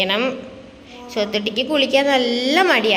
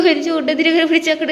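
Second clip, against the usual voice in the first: laughing; 4 semitones higher than usual. Real, not acted. Laughs while speaking.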